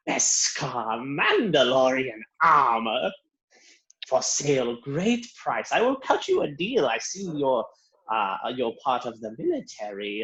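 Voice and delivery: a slick saleswoman pushing the armor; Luba's sales pitch. Acted. Shopkeeper Luba selling Mandalorian armor to customers, lightly voiced, rising on the deal.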